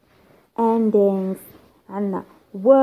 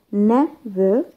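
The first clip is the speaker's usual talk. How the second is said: "never" slowly, with NE stressed; stress on first syllable. Shown as a demonstration. Teacher giving adverb examples, first-syllable stress on "never". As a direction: lean on the NE of "never". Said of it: "stress on the first syllable".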